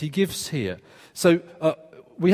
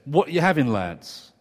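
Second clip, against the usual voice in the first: imitating a London barman's accent; casual London barman greeting. Barman greets tourists in a London accent. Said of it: "in a strong London accent".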